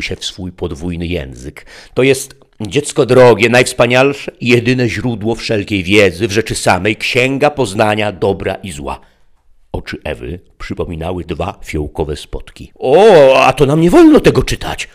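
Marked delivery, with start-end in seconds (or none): 1.9-9.0 high, loud, coaxing tempter; sly interpreter. A narrator's reading. Interpreter sells the book. 12.8-14.9 put-on high, loud little girl's voice; a child reciting the rule; childlike Eve. A narrator's reading.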